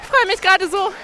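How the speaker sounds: excited. Real, not acted. Reaching the finish line.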